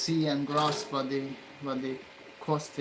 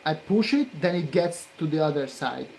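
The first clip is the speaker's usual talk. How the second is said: angry; 5 dB louder than usual. Real, not acted. Continued frustration.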